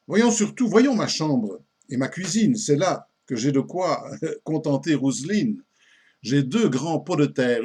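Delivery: measured, lively recital of comic verse; an old comic poem read aloud with theatrical relish; poem recitation. Acted. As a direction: recite it line by line with marked pauses.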